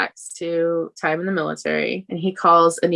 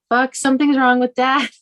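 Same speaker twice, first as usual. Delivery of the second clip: put-on higher-pitched voice of an alarmed child; imitated worried kid; 8 semitones higher, 4 dB louder than usual. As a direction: lightly act a kid calling for help. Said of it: "I think Chris is like".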